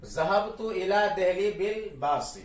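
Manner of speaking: slow, measured ज़हबतु इला दहली बिल बास, ending "baasi"; model reading. Shown as a demonstration. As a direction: read it out slowly, sounding a short i after बास. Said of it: "बिल बास ही पढ़ेंगे". (ज़हबतु इला दहली बिल बास: धीरे, आख़िर में "बासि")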